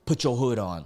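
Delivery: mimicking a passenger's brusque order; lightly imitated command, punched at the start; a hint of the scary passenger's voice. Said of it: "he literally said it like".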